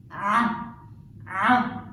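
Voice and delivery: Ah with a tight choked throat; Ah, ah squeezed from the throat; Arabic ain. Shown as a demonstration. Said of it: "a choking letter".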